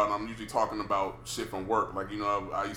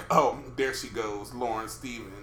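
sleep-talk chuckle; 3 dB quieter than usual. Retold or imitated. Girlfriend imitating his sleep-talk to him, mild chuckle after. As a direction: imitate laughing contentedly while asleep. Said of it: "You was motherfucking laughing".

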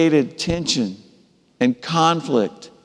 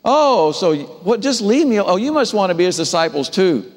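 mock-scornful, pitched up, dripping sarcasm; sarcastic; 4 semitones higher than usual. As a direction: taunt them with a sneer in the voice. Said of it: "It's sarcastic".

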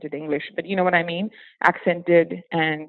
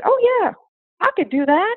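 much higher and louder, a chirpy overconfident yes; eager yes; 5 dB louder than usual. Retold or imitated. Retelling how she accepted the job, mock eager higher yes. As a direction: sell it like you'd love the job. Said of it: "I just said".

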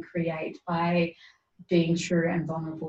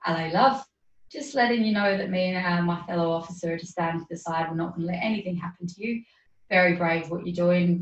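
put-on Cockney accent. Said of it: "this is terrible English accent".

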